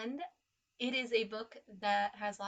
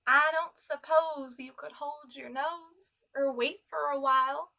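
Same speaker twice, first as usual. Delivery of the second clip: sad crocodile; 3 semitones higher, 6 dB louder than usual. Acted. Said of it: "asked the crocodile with a sad little smile".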